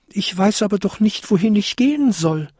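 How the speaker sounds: high, pleading little kobold; crying out. A narrator's reading. Kobold with nowhere to go, crying out. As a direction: protest helplessly in a high voice. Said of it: "rief der kleinste Winterkobold".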